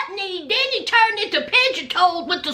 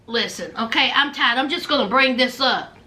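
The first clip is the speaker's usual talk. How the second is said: tired Kim; 7 semitones lower than usual. Retold or imitated. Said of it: "So she says".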